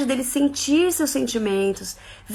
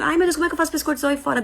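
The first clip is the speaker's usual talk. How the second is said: mock fretting; 4 semitones higher, much faster than usual. Mocking a worried mother.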